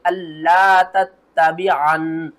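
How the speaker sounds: slow tajweed with stretched vowel; Quran recitation demo. Shown as a demonstration. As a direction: recite slowly, nasalising the final noon. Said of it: "गुन्ना करेंगे". (धीमी तजवीद वाली तिलावत)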